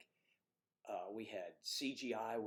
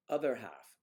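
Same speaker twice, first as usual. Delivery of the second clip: English accent attempt; 6 dB louder than usual. Shown as a demonstration. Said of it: "She wanted a English accent".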